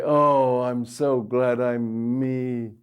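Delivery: loud, slow, self-satisfied gush; smug self-praise. Pretend. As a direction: gush over yourself with mock pride. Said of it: "don't say".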